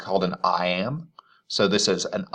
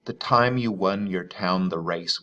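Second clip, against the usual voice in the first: poem recital. Shown as a demonstration. Teacher reading the poem's first line to students, even recital. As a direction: read as a measured line of verse. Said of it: "I've marked the stresses there".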